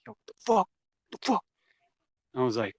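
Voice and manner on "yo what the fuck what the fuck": high-pitched mock outburst; hot-tempered friend. Hot-tempered friend reacting to being told to leave, mock outburst. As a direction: imitate an indignant friend, pitched way up. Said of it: "like, hot temper".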